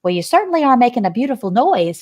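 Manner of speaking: fast, sharp snap; snapped. Acted. Annoyed old sheep snaps at wailing Wilbur. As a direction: bite it off quickly. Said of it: "snapped the old sheep".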